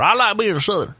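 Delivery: high, hammed-up Southern accent on "I like being Southern"; mocking a Southern influencer in an exaggerated Southern accent. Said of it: "You need to practice your accent".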